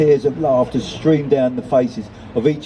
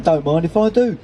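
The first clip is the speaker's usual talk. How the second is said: higher-pitched Cockney character line; 5 semitones higher than usual. Acted. Nelson taking a share of fish, Cockney accent. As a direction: accept in Cockney, pitched up a little. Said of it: "'cause he's a Cockney".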